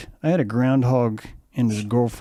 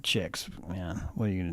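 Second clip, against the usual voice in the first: consoling the groundhog; 5 semitones lower, 13 dB quieter than usual. Retold or imitated. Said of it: "talking to him like".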